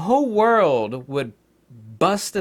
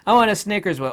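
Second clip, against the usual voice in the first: "I want a Snickers bar" higher and louder, stress on "want"; insistent demanding retake; 7 semitones higher, 7 dB louder, faster than usual. Shown as a demonstration. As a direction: push harder on "want". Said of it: "Say some of that".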